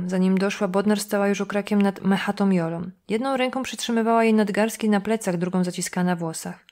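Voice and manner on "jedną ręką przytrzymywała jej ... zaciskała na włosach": ordinary delivery, nothing marked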